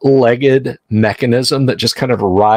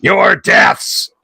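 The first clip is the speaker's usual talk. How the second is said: glitching machine repeating nine, higher pitch; metallic voice filter; 4 semitones higher than usual. Acted. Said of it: "a rasping metallic voice says".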